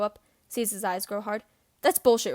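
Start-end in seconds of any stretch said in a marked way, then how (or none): 1.8-2.3 raised voice. Acted. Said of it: "raised his voice".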